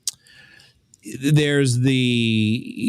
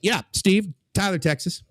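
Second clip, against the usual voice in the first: friendly Texan guy; 10 semitones higher than usual. Retold or imitated. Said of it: "he's like".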